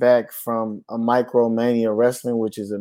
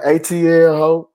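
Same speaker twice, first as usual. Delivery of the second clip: mock shout; 5 semitones higher, 4 dB louder than usual. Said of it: "And he be like".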